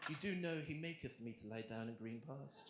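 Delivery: deliberately English-sounding Bible verse; posh English scripture quote. Acted. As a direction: recite King James in English accent. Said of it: "I quote passages from the King James Version".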